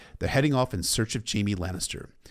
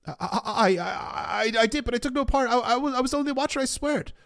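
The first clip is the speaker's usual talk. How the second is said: high falsetto stammer, tumbling into a rush; hammed-up cowering captive, stuttering; terrified pleading. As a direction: squeak out a panicked denial. Captive stammers denial to the king.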